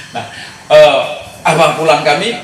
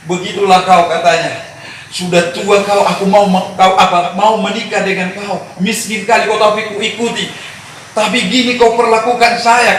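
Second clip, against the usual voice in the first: mother scolding father; 4 semitones higher than usual. Retold or imitated.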